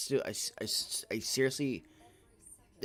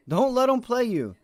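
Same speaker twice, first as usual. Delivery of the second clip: forceful repeat; 8 semitones higher, 6 dB louder than usual. Real, not acted. Repeats the warning louder.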